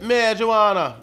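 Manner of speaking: put-on playful, drawn-out Jamaican accent; mock Jamaican accent. Co-host naming the weed, mock Jamaican accent. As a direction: stretch it slowly with a Jamaican lilt. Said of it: "your Jamaican accent".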